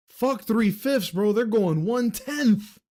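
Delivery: high, mocking put-on voice repeating the line. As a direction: say it back as a mocking caricature.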